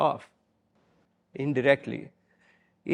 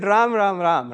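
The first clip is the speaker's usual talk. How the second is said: fervent invocation; 4 semitones higher, 6 dB louder, slower than usual. Retold or imitated. Gandhi's dying words retold.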